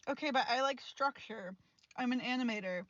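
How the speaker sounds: talking around a cough drop; mouth full. Real, not acted. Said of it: "I have a cough drop in my mouth".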